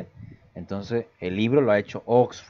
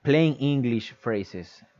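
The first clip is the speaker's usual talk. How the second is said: "Plain English phrases" said slowly with weight on "plain"; slow emphasis; 2 semitones higher, much slower than usual. Shown as a demonstration. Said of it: "o sea, de inglés neto".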